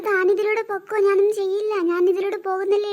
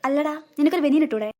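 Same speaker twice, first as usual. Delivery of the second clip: put-on fussy old mother; 5 semitones lower than usual. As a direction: nag like a worried mother. Mother character voice.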